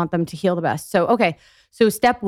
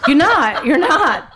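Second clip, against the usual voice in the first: laughing; 7 semitones higher, 4 dB louder, much slower than usual. Real, not acted. Emphatic dismissal, laughing.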